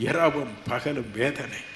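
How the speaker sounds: soft, slow and spent; quiet tired sigh of a line; weary quiet. Retold or imitated. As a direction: sink down into exhaustion. Quiet after crying out.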